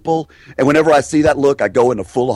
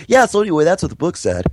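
suddenly higher, offhand tone; switch to a different tonality; 6 semitones higher, faster than usual. Shown as a demonstration. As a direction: drop into a casual, offhand register. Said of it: "I'll kind of go into different tonality".

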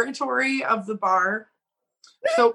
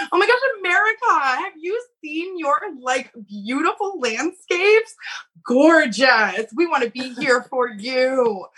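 put-on gushing drunk girl; 3 semitones higher than usual. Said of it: "they'd be like".

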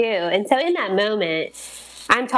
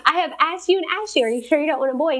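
high, mock-exasperated protest; exasperated wife; 8 semitones higher than usual. Wife questioning husband after two years, mock exasperation. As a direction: plead in a high voice, stretching words out.

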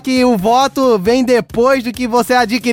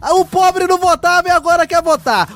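Bolsonaro with lisp; 3 semitones higher than usual. Acted. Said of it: "Trinta segundos de língua presa".

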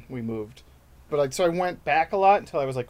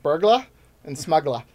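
imitated Boston accent trick words; 4 dB louder than usual. Passing on an accent trick, Boston accent. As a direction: lean into a Boston accent on each word. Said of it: "talking about the Boston accent".

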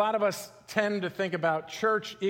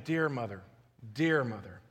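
tender; 6 semitones lower, 4 dB quieter than usual. Retold or imitated. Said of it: "It's like saying".

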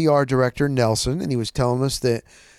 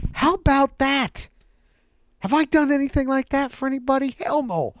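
marvelling; 10 semitones higher than usual. Real, not acted. Marvelling at Joe's generosity.

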